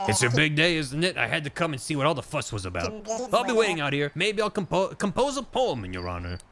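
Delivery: lightly voiced, lilting onlooker; admiring poet character. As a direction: fuss fondly over the hero of the day.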